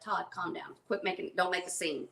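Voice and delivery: low, soft retold plea to calm down; hushed calming. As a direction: quietly shush an upset companion, keep it contained. Hushing a friend's retold outburst.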